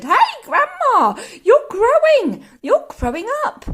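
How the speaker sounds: put-on high, loud boy's yell; startled shout. A narrator's reading. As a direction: shout up in sudden alarm. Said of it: "George gave a jump and shouted".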